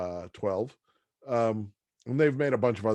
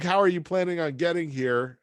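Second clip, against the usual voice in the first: Joe asking; 6 semitones higher than usual. Retold or imitated. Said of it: "something like".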